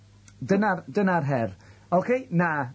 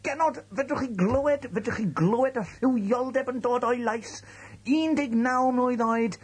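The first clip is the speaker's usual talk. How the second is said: mock seductive pitch; 4 semitones higher, slower than usual.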